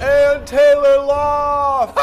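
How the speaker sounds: high shrieked store name; screamed last words. Pretend. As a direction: shriek it like you're falling. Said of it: "Mine would be like".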